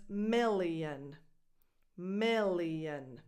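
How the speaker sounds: million said slowly, mil-li-on; teacher model. Shown as a demonstration. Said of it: "Then you have a million".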